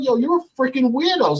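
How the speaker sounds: high, heated insult; replayed angry jab; retold cussing out. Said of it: "So I'm going off on him".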